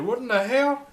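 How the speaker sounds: sudden high shocked yell; shocked yelp. Retold or imitated. Startled by the ripped-off pigtail, high shocked yell. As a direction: blurt it out in high-pitched disbelief.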